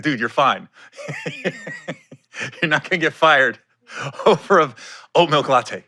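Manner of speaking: half-laughing, easy-going reassurance to an intern. Retold or imitated. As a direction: laugh through it, telling the kid it's fine. Reassuring the PA about latte.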